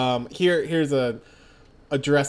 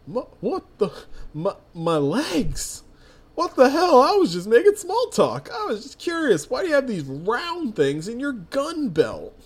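panicked stranger; 10 semitones higher than usual. Acted. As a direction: shriek in confused alarm as your legs fail. Stranger panics, legs give way.

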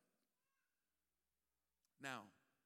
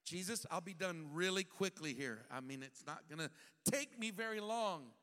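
forced politeness; 4 dB louder than usual. Acted. Martha forcing politeness.

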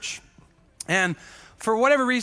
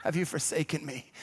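mock weary prayer; 5 semitones lower, 8 dB quieter, slower than usual. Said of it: "I'm just there, you know, just like".

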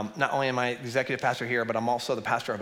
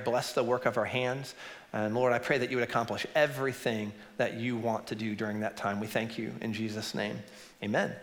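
prayer. Real, not acted. Pastor leads prayer.

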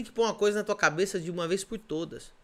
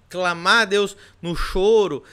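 normal talking voice

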